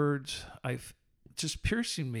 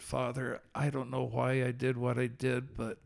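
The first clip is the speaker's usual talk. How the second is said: retold prayer; 2 semitones lower than usual. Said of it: "I dropped to my knees and I said".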